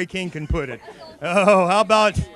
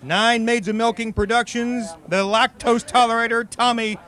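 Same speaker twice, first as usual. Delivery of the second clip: ring announcer intro. Acted. Host introducing the final four chuggers like a ring announcer. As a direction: introduce them like boxers entering the ring.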